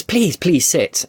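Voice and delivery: gracious queen invitation. Acted. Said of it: "she says".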